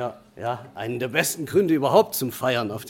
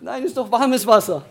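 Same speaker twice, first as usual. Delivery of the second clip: imitating Tammy; 7 semitones higher, 5 dB louder than usual. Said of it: "Tammy sagt".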